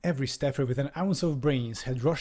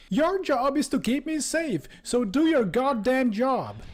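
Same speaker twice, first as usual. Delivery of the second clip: very high, louder hammed-up shriek; high-toned screaming; 12 semitones higher, 4 dB louder than usual. Cowering ambassador screams at the soldier, high-pitched hysterics. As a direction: screech it like a panicked snob. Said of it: "screaming at Brett in his high-toned Boston Brahmin accent".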